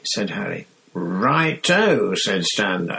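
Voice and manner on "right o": high, lively Cockney bus conductor; bright, high cheeky lad; Stan's chirpy voice. Acted. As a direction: chirp it out like a cheery young conductor. Stan voiced.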